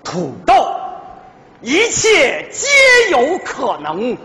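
slow, grand commercial voice; ad slogan. Pretend. Husband pitching potatoes to wife as a slow ad slogan. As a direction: announce it like a TV ad, drawn out. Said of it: "广告词我都想好了".

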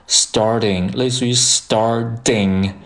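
"starting" with the t tapped like a quick d; flap T. Shown as a demonstration. Teacher showing learners the flap in starting, flap T. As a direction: say "starting" slowly as "star-ding". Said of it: "把这个T呢读成一个flap T".

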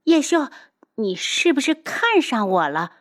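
high, exclaimed taunt; loud name-call, then teasing question; gleeful accusation. Acted. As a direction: pounce on a sudden triumphant realization. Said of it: "他忽然哈哈大笑起来".

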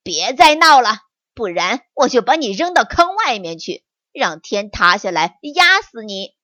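mild storybook tiger growl; roar. Acted. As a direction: tiger fed up with the tickling. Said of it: "老虎忍无可忍地吼了一声".

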